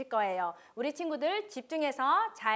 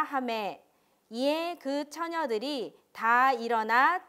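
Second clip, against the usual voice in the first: scripture reading; 3 dB louder than usual. Acted. Reads scripture aloud to children. (천천히 또박또박 성경 낭독)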